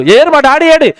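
high, wailing newborn; crying baby's plea. Retold or imitated. Newborn baby crying for God among strangers, high and wailing. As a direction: cry out for the missing maker. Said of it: "అనగానే".

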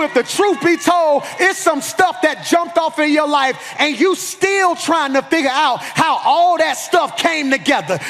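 insistent, ringing sermon delivery; forceful preaching. Real, not acted. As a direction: preach it at the congregation with drive.

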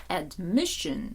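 admission stressed on MIS; ad-MIS-sion, weight on the middle syllable; stress on second syllable. Shown as a demonstration. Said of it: "На другий склад".

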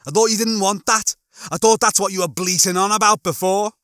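loud, high, needling retort; Lister. Acted. Lister challenges Rimmer's change of mind, indignant.

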